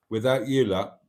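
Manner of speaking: talking while chewing; words round a bite of onion. Real, not acted. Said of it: "sorry, I'm chewing a bit of onion".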